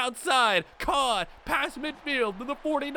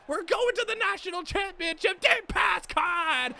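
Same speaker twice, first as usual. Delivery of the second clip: excited shout; 7 semitones higher than usual. Real, not acted. Celebrating reaching the championship.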